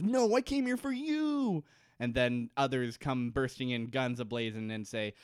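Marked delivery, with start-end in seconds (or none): 0.0-1.6 much higher, slow put-on woman's voice; high, drawn-out plea; mock Kate. Kate refusing to leave Jack, in a high slow voice. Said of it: "And Kate says".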